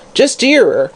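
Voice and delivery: high, vicious crone; vicious sneer. Acted. Hag sneering at the sick woman, high. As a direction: sneer it at the singer. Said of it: "she said viciously".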